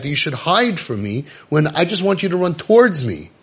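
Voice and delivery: put-on a father begging his child to come back; God pleading. God calling the ashamed listener home, tender plea.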